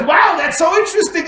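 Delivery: high, loud amazed cry; amazed doctor. Acted. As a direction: shout it in wide-eyed wonder.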